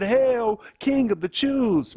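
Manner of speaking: high, sneering mock homage; mocking soldiers. Soldiers mocking Jesus with a crown of thorns, high sneering hail. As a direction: hail him like a joke king. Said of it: "making fun of him".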